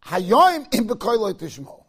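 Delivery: drawn-out, weighty delivery of Eliyahu's answer; slow emphatic quote. Retold or imitated. Eliyahu answering the sage, slow and weighty. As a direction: let each word land slowly.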